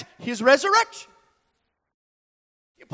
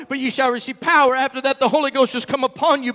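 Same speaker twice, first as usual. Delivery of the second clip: quick read; faster than usual. Shown as a demonstration. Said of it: "But you need to understand".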